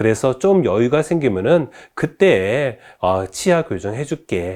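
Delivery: ordinary talk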